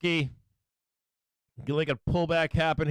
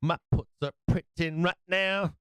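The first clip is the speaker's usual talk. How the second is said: slow crowing gloat rising toward the end; slower than usual. Real, not acted. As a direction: savor every word, crowing about the win. Gloating over winning trades.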